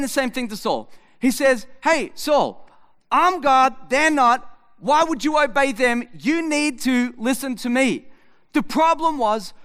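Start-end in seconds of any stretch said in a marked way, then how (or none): 1.8-8.1 voicing God. God voiced addressing Saul.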